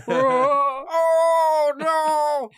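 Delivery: high shrieking laugh-cry. Pretend. Laughing mock horror at walrus.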